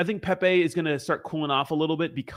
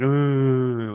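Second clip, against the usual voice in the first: long, dull mock zombie groan; imitated zombie groan. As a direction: drone like a zombie at the door. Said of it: "they'll just be at your door like".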